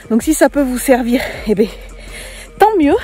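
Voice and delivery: breathless from fast walking; catching breath mid sentence. Real, not acted. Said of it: "je marche vite. et je suis essoufflée".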